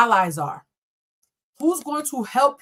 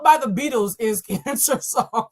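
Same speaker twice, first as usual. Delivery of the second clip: laughing; slower than usual. Real, not acted. Laughing again at the song.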